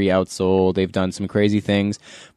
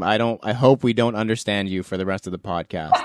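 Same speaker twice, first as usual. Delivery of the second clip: laughing while joking. Real, not acted.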